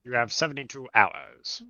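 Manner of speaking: muffled behind a hand; hand over mouth. Pretend. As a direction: speak through your palm. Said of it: "I see you just have your hand over your mouth".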